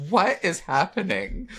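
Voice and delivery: high, slow parrot-like Cockney squawk; terrible British accent. Retold or imitated. Actor horrified by own British accent at table read, parrot-like. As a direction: screech it out in botched British. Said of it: "You sounded like Iago the parrot from Aladdin".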